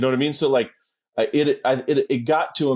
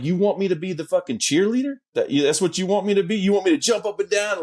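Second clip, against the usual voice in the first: higher, rising retort; incredulous rhetorical questioning, pitched up; mock incredulous; 5 semitones higher than usual. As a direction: act out mild indignation at an absurd request. Retells indignant retort to friend's request.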